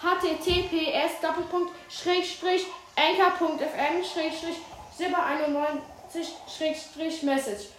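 slow, careful web address dictation. Shown as a demonstration. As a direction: read the link out slowly for listeners. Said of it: "ich sag's nochmal neu".

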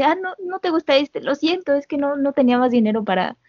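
put-on a shy girl apologizing in a rush; lightly voiced nervous girl; apologetic Connie. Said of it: "le dice".

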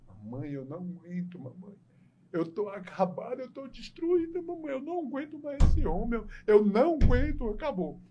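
high, wailing fake cry; mock sobbing daughter. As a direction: whimper it like a hammed-up crying bride. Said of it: "a mulher começou a chorar". (filha chorando exagerada pra mãe, voz aguda de choro)

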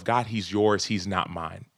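quiet prayer. Retold or imitated. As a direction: pray it under your breath. His daily prayer for his son.

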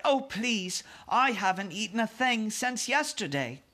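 put-on high, pleading little girl; Sophie, eager pleading. A narrator's reading. Hungry girl begs the Queen for breakfast, eager cry. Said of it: "Sophie cried".

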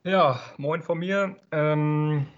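stuffy, sniffly cold voice; man flu. Real, not acted. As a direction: voice rough from a cold. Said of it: "entschuldige ich mich für meine Stimme".

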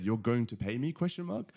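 incredulous, rising high on question mark; disbelieving you're going to pay me; retold disbelief. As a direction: replay his own stunned question, pitch shooting up. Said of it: "I literally said".

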